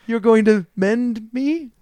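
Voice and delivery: hopeful orphan. Acted. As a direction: ask timidly like a wide-eyed orphan. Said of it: "looks up at you like".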